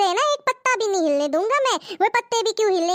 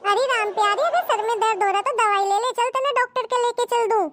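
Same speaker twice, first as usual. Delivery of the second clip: husband; 2 semitones higher than usual. Acted. Husband answers wife's wailing, lightly voiced and teasing.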